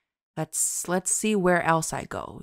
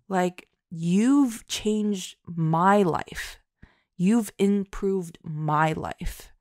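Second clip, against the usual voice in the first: sincere; 4 dB louder, much slower than usual. Retold or imitated. Heartfelt thanks after gushing.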